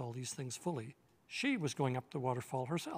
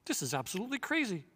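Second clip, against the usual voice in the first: excited; 5 semitones higher, faster than usual. Acted. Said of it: "said Eustace to Edmund".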